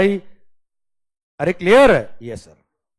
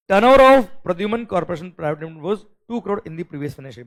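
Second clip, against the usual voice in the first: deliberate dictation to students; slow louder question reading; 7 dB louder, much slower than usual. Shown as a demonstration. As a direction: read the problem out slowly, a little louder. Teacher reads question aloud.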